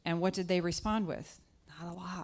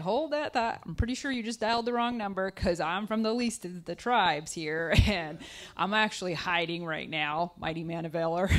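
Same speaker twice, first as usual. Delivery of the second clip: Gideon in disbelief; 3 dB louder than usual. Retold or imitated. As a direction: brush off the angel like a wrong phone call. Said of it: "And Gideon's like".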